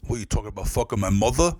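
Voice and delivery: lightly mocked Italian-American tough guy; quick challenge in a slight Italian-American accent; ginzo accent. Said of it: "Like, real ginzo".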